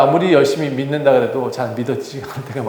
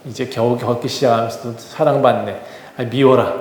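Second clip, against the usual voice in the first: mildly voiced child teasing, a touch quieter; jeering child; 4 semitones lower, 4 dB quieter than usual. A boy mocking the toddler from afar, lightly taunting. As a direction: sneer under your breath like a jealous boy. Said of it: "어떤 아이 하나가 놀립니다".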